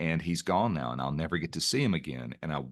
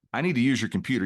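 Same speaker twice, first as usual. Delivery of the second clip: higher, louder pushy stranger, lightly acted; mock demand; 4 semitones higher, 5 dB louder, faster than usual. Random stranger in coffee shop wants your computer, mock demanding. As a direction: make a pretend demand, raised and insistent.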